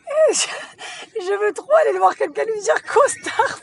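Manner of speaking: very high, loud laughing shout; howling with laughter. Real, not acted. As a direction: shriek with laughter. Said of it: "je pleure de rire".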